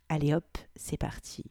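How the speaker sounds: a soft whispered "let's go". Real, not acted. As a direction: breathe it out before starting. Launching into the reading. (chuchoté, on y va)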